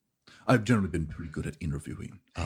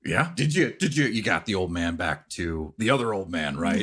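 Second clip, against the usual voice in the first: gentle bear person; 4 dB louder than usual. Acted. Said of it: "my bear voice".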